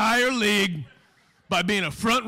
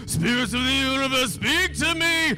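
mystic psychic voice; 2 semitones higher than usual. Pretend. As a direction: call on the spirits like a hammy psychic. Psychic summons spirits.

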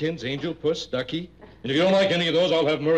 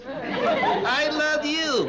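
lips held still, ventriloquist style; talking with mouth closed; 9 semitones higher, much slower than usual. Shown as a demonstration. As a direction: say it without moving the lips. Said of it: "without moving my lips".

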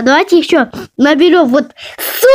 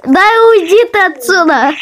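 annoyed; 5 semitones higher than usual. Real, not acted. Annoyed shooing.

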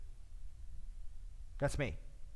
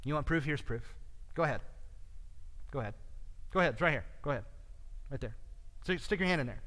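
mild, matter-of-fact invitation in short pieces; simple, unscolding; 6 dB quieter, much faster than usual. Retold or imitated. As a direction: offer it simply, without lecturing, pausing between phrases. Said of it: "does not yell at Thomas ... He simply says".

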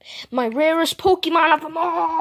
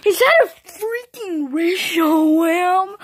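amazed; 3 semitones higher, slower than usual. Pretend. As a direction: ask it like you cannot believe your eyes. Awed at the legendary.

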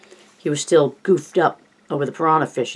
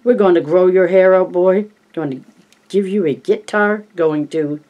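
higher, louder hammed announcer; 4 semitones higher, 4 dB louder than usual. Richie promising Stan fame in a hammed announcer voice. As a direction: keep selling it like the announcer. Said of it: "movie tone announcer's voice".

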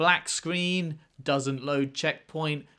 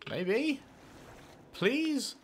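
mock begging; 10 semitones higher, 4 dB quieter than usual. Pleading with enemies.

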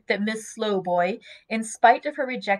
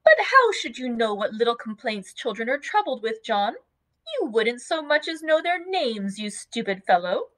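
put-on teasing young wife; 3 semitones higher than usual. Dot teasing her husband John, fond and chiding. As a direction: tease him about not knowing children.

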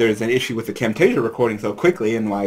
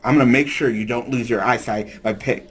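put-on Brooklyn accent breaking into laughter; giggling through a tough-guy accent; laughing through lines. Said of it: "I can't do it".

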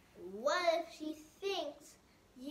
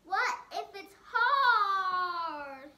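whiny worry; 5 semitones higher, 6 dB louder than usual. Acted. Reading worried monster lines.

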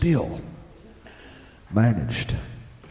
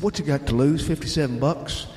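urging friend; 6 semitones higher, faster than usual. Retold or imitated. Friend urging the doubtful narrator to buy the gear, excited and pushing. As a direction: talk him into it with rising excitement.

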